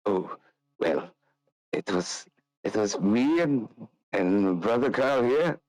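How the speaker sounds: hushed, rambling confession; sly storyteller rogue. Acted. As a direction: lean in and spill the heist. Nikolai tells tale.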